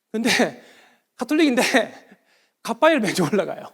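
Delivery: laughing through the admission; amused confession. Real, not acted. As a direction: let a laugh break into the words. Amused confession about his own habit.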